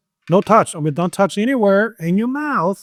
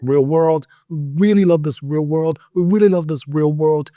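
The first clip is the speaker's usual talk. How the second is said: three times fast. Shown as a demonstration. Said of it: "try this three times fast".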